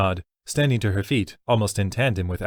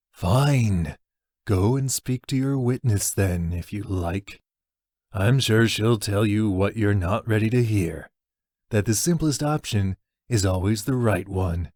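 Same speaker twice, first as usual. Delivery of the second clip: dismissive burly man. Acted. Ruthbane voiced, dismissive.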